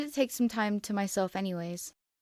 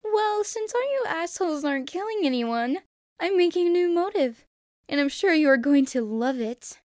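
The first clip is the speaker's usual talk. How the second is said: much higher, louder gleeful mascot voice; a loud, high cartoon-villain sneer; Monokuma; 9 semitones higher, 8 dB louder than usual. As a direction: gloat like a sadistic cartoon bear. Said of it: "He smiled more and laughed".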